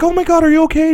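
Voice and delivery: high, loud mock alarm; alarmed mom. Nurse mom to old couple after crash, mock frantic. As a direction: imitate mom rushing in, frantic.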